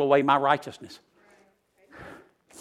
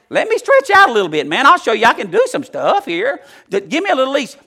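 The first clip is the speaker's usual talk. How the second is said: high, loud burst of eagerness; eager plea; 8 semitones higher, 7 dB louder than usual. Acted. Preacher acting out someone wanting more leash, eager plea. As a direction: beg loudly for some slack, pitched way up.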